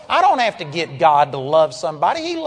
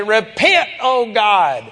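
mock pleading cry to God, a bit louder; pleading prayer like Moses; 2 semitones higher, 3 dB louder, slower than usual. Preacher mocking believers who beg God, mock pleading prayer. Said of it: "stand there like Moses and say".

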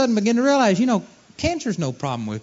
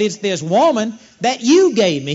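louder, accusing retelling; louder, emphatic finger-pointing; pointed blame; 3 semitones higher, 6 dB louder than usual. Retold or imitated. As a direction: push the blame hard onto her. Adam blaming Eve again.

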